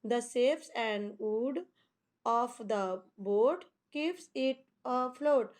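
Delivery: slow, deliberate read-aloud of an English poem line. Shown as a demonstration. Teacher reads a poem line to students, very slow and measured. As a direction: read each word slowly for the class. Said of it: "teacher reads poem lines slowly".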